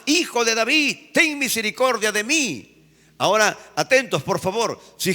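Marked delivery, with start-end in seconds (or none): 0.0-2.8 high pleading cry; a blind man crying out over the scolding crowd, high and pleading; crying out louder. Acted. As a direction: cry out even louder for mercy. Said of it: "él clamaba mucho más".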